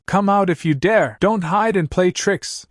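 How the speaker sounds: high defiant shout, slowing on the last words. A narrator's reading. Man with two braids challenging a hidden voice, shouting up high and slowing. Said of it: "The man with two braids shouts".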